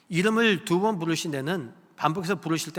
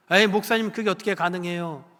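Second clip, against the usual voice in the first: doubtful objection; 3 semitones higher, 3 dB louder than usual. Retold or imitated. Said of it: "라고 생각하실 수 있지만".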